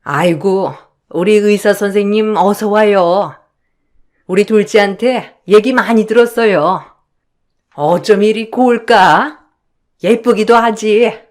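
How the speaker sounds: mother-in-law welcoming the doctor fiancée, doting and sweet; doting welcome. Acted. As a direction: gush over the new bride-to-be. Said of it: "시어머니도 참 좋아하더라고요".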